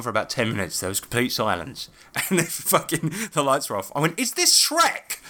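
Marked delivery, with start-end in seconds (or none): 4.2-5.2 high, slow, drawn-out heckle; mock loud interruption. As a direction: call out to break the silence and annoy. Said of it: "Like that".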